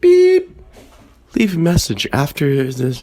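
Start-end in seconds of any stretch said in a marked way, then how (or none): 0.0-0.6 imitated high beep.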